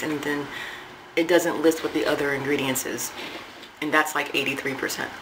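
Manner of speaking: words muffled by food; chewing between words; talking while eating cracker. Real, not acted. Seen 0: cracker held at lips, biting and chewing throughout speech.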